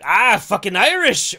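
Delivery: loud, high, drawn-out mock cheer; mock Irish cheer. Host imagining Irish viewers liking the movie, loud cheer. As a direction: cheer loudly as an approving viewer. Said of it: "'cause they're like".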